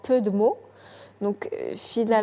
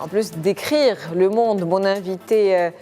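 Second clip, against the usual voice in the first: présentation d'émission. Acted. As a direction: lecture posée de présentatrice télé. Présentation lue de l'émission. (présentation télévisée de l'invitée)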